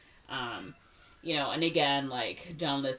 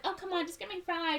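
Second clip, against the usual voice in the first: much higher, quick whiny plea; mock whiny teen; faster than usual. Ariel begging her friends for fries, high whiny. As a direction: wheedle like a spoiled teen.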